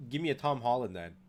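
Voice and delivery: talking from across the room; far away. Real, not acted. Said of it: "why do you sound so far away all of a sudden".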